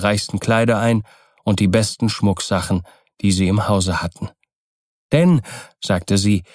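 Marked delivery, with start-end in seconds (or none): 5.1-5.4 high, lively, hopeful urging; eager wife Kokua. Acted. Kokua urges Keawe off to Tahiti, eagerly. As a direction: coax him along in a raised pitch. Narrator voices brisk Kokua.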